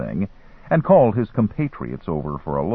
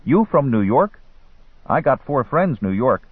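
put-on higher-pitched street boy; young Arab hustler in broken English; 5 semitones higher, 3 dB louder than usual. A narrator's reading. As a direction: chat up a tourist like a street boy. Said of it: "The boy nodded".

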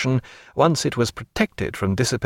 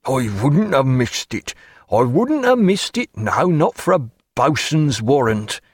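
put-on gleeful old sailor. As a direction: relish the tale like an old salt. Killick gloating.

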